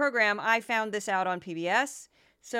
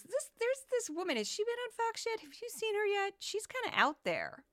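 imitating a friend; 11 semitones higher, 5 dB quieter than usual. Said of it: "a friend of mine goes".

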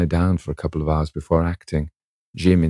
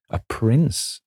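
musical cry; 7 semitones higher than usual. A narrator's reading. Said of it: "she cried musically".

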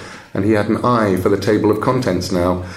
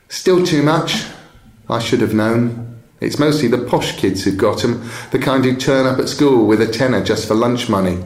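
a hint of a resigned teenage customer, slightly raised pitch; lightly voiced schoolgirl; 3 semitones higher than usual. Schoolgirl turning down the bookseller's price, lightly voiced and resigned. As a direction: lightly play a schoolgirl who can't afford it.

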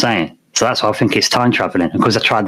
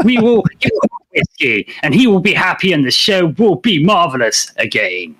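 high, pushy commercial voice; hard sell ad; 7 semitones higher than usual. Pretend. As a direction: sell it like a radio ad. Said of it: "I'll talk like a commercial".

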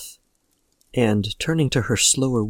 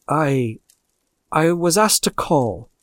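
slow, halting start, higher voice; hesitant; 3 semitones higher, slower than usual. A narrator's reading. Visitor to the old lady on arriving, hesitant. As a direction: falter on the first word, then go slowly. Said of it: "he was at first strangely silent".

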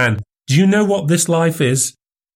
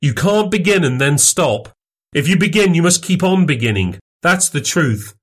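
a raised, much higher, scornful MacFarlane; mocking exclamation in a higher voice; crying out, higher; 8 semitones higher than usual. A narrator's reading. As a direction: wave his protest away with a sneer. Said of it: "cried Wolfe".

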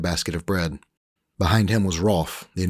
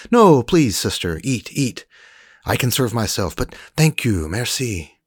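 higher, louder polite Frenchman; Frenchman Rolf; 5 semitones higher, 5 dB louder, slower than usual. Acted. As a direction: wave off the sister politely as Rolf. Rolf declining.

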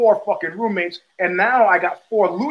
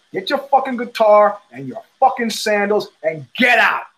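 retold angry order. Retold order to throw father out.

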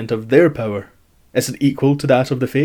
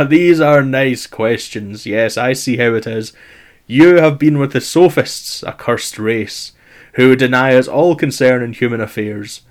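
hammy stage actor. Acted. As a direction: thunder like an offended god. Zeus indignant at sophists' questions.

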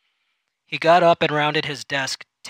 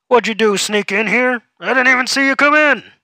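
much higher and louder, gushing; over-excited; 9 semitones higher, 9 dB louder than usual. Acted. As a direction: fake-friendly boss bursting with surprise. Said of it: "way too excited".

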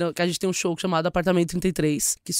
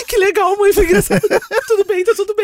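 sarcastic laughing; 11 semitones higher, 7 dB louder than usual. Retold or imitated. Mocking reaction to mom's prank.

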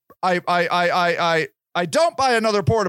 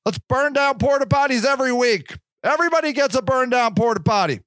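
sarcastic; 8 semitones higher than usual. Acted. Sarcastic mock celebration.

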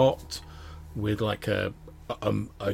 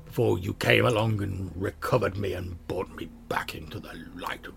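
hushed, whispery sword speaking in the mind; voice of the Sun Sword. Acted. Sword recalling its dormant years to the wielder, hushed. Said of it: "you hear the voice of the Sun Sword".

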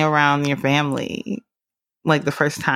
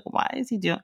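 rising to a high incredulous squeak; mock disbelief; 9 semitones higher than usual. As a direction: act baffled and alarmed. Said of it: "I'm just like".

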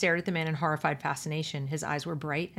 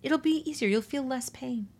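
higher, coaxing mock-soothing tone; 7 semitones higher than usual. IT promises the children less pain, mock-soothing. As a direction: imitate a soother, slowing toward the end. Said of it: "With this soothing tone".

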